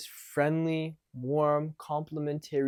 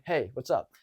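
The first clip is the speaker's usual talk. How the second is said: lightly challenging greeting; combative. Shown as a demonstration. Coach imitates guys approaching a girl, combative. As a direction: make the hello a mild challenge. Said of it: "it's already combative".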